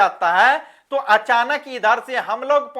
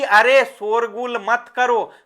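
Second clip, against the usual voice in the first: mild, half-hearted teacher's call; slow, mildly raised call to children; पुकारकर कहना; slower than usual. Shown as a demonstration. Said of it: "जोर से बोल दिया". (हल्के ज़ोर से टोकना)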